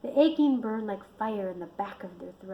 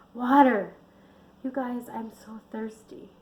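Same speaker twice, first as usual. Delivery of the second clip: complaining; 3 semitones higher, 5 dB louder than usual. Acted. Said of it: "she complained".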